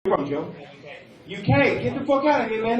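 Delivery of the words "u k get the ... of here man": higher-pitched mock British accent; playful British accent imitation. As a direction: echo them in a put-on British accent. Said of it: "I'm always doing the accent cues".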